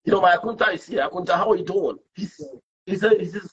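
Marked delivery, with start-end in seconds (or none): 1.1-2.0 Ghanaian greeting. Retold or imitated. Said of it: "I speak like a Ghanaian".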